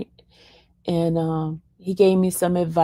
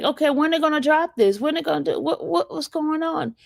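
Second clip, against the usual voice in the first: anxious impatience; 7 semitones higher than usual. Retold or imitated. Her anxious questioning of attorney.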